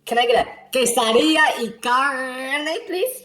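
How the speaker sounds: quesadilla y carne said slowly in careful Spanish; careful Spanish pronunciation. Retold or imitated. Ordering from the waiter, careful Spanish. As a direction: savour each Spanish sound of quesadilla y carne. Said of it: "perfectly announce the names of the dishes".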